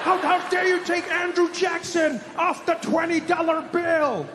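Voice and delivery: high, slow, hammed-up outrage; mock furious. Imitating people defending Andrew Jackson, mock outrage. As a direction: act scandalized in a high voice. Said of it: "People were furious".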